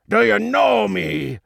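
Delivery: big fish villain screeching; outraged screech. A narrator's reading. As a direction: screech the question in disbelief. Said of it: "he screeched".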